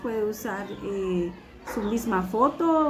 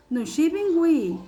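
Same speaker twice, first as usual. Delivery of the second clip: "Nushibingui" again slow and high, falling at the end; tune repeated; 6 semitones higher, 3 dB louder, slower than usual. Shown as a demonstration. Teacher repeats the tune so students guess fear. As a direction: repeat the little melody on "Nushibingui". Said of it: "por la tonadita me la van a entender".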